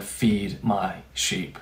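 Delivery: low, soft, very slow; hushed, measured tenderness; gentle commission. Acted. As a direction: answer a broken friend slowly and quietly. Jesus's answer to broken Peter.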